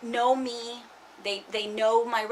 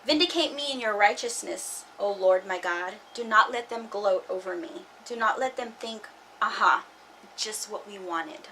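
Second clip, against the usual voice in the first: scripture reading. Acted. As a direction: read the psalm like a plea. Reads a psalm aloud.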